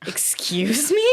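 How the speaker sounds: a breathy shocked whisper; incredulous whisper. Retold or imitated. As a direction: hush it out in disbelief. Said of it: "And I was like".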